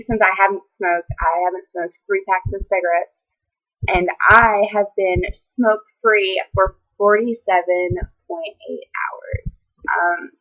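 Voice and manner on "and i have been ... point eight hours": choked up, the last words barely voiced; getting emotional. Real, not acted. Telling viewers about forty-seven hours smoke-free, voice cracking with emotion. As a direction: voice breaking into tears, slowing down. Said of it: "I'm getting a little emotional".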